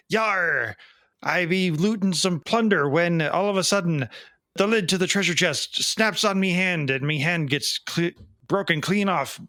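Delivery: lightly voiced old sea pirate growling his tale; a hint of a salty pirate spinning a yarn. Joke-teller voicing the pirate to the bartender, light pirate voice. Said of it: "a pirate walks into a bar".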